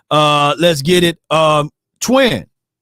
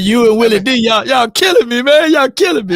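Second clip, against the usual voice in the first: playful high exclaim; 7 semitones higher than usual. Retold or imitated. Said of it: "I, I said".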